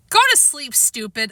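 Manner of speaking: scolding. Acted. Peter scolds the bird.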